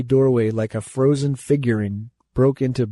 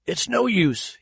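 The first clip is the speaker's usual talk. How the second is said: stricken moan; 7 semitones higher than usual. Acted. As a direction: moan it to yourself, beaten. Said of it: "he moaned strickenly".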